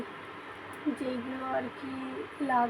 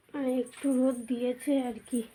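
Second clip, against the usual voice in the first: while brushing teeth. Real, not acted. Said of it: "brush করতে করতে".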